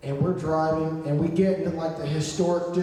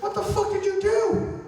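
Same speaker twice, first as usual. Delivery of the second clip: very high, incredulous demand; high-pitched mock panic; retold outcry. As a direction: act out shocked disbelief, pitch shooting up. Acting out alarm at friend's fall.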